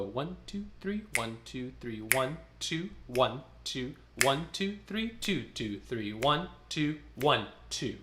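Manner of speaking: rhythmic counting in twos; counting beats. Shown as a demonstration. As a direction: tap out the count aloud. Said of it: "Do that for me two times".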